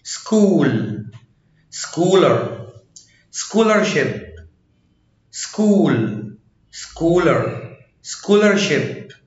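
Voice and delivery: slow "سكول", "سكولر", "سكولرشيب" with hard k. Shown as a demonstration. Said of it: "سي اتش اتنطقت كي".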